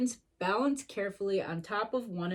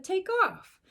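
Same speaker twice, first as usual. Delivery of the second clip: eager go; 10 semitones higher than usual. A narrator's reading. Timothy urging Dumbo.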